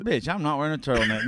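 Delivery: laughing through a fast refusal. Real, not acted. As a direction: blurt it out while laughing.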